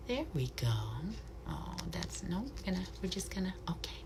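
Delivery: hushed, gentle pet talk; soft cooing to bird. Real, not acted. Keeper coos softly to the owl on her glove.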